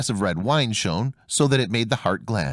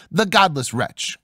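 angry cry; 4 semitones higher, slower than usual. Acted. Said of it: "cried the tailor".

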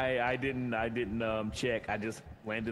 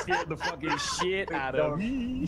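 laughing; 4 semitones higher, 3 dB louder, much slower than usual. Real, not acted. Laughing after a jump scare.

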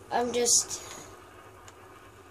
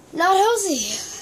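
mock loud scold; 7 semitones higher, 8 dB louder, much slower than usual. Scolding another player.

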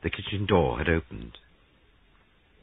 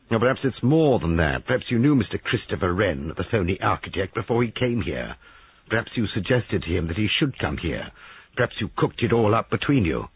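jealous accusation; 4 semitones higher, 4 dB louder than usual. Acted.

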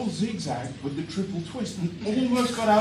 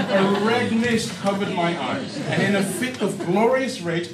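rage; 3 semitones higher, 7 dB louder than usual. Acted.

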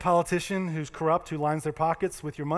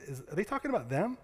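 retold whisper; 6 dB quieter than usual. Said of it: "I whispered to the person".

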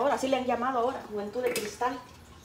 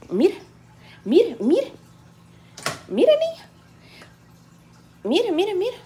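urgent calls; 8 semitones higher, 4 dB louder, slower than usual. Real, not acted. Urgent calls at boiling pot.

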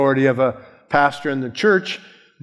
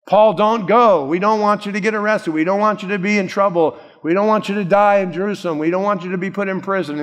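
higher, fast, urgent mock pleading; pleading friends; 5 semitones higher, faster than usual. Friends urge Paul not to go to Jerusalem, high fast pleading. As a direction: rush the pleas like worried friends.

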